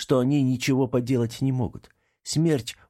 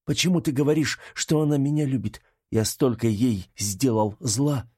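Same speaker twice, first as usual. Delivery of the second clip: lightly voiced disbelief sinking into regret; bewildered Artam; 3 semitones higher than usual.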